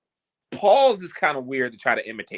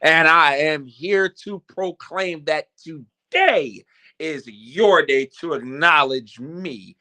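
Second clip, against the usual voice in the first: slow, booming wrestling announcer; drawn-out ring promo voice; slower than usual. Pretend. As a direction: hype yourself up like a pro wrestler entering. Wrestling promo style intro.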